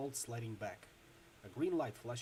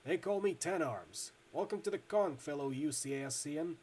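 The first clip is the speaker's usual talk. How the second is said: put-on Midwestern accent; 2 semitones higher, 4 dB louder than usual. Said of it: "loose Midwestern accent".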